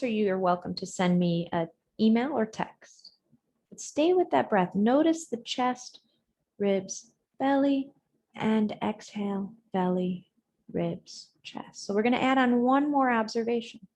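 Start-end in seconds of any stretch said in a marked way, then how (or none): 3.7-11.9 spaced-out cues, one body part at a time; guided breathing meditation. Real, not acted. Counts body parts through the breath.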